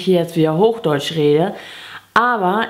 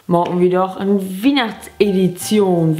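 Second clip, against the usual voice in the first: Plattdeutsch. Shown as a demonstration. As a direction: say it as a Platt speaker would. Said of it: "einmal auf Plattdeutsch". (op Plattdüütsch)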